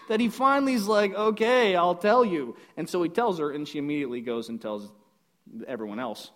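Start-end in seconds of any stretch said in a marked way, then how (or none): 1.1-2.6 louder, mock-annoyed surrender; annoyed giving in. Samson worn down by her crying, loud annoyed giving-in. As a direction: give in as if nagged to breaking. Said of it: "he was so annoyed by all of her constant crying".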